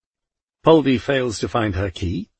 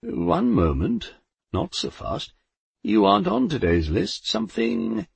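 nervous Death; 8 semitones higher than usual. A narrator's reading. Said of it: "cleared his throat nervously".

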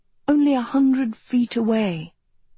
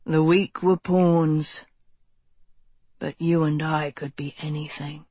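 smiling; 4 semitones lower than usual. A narrator's reading. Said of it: "a smile in his voice".

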